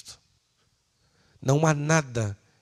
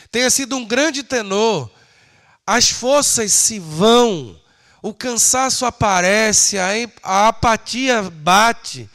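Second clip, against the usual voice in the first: higher, emphatic pulpit delivery; impassioned preaching; 8 semitones higher, 8 dB louder than usual. Acted. Preacher warning the church that human strength fades, impassioned. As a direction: preach it forcefully with long stressed endings.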